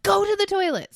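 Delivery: high, urgent parental command; exasperated mom's order. Retold or imitated. Mom ordering grunting son to the bathroom, high and urgent. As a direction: send a toddler off at once. Mother ordering toddler in retold story.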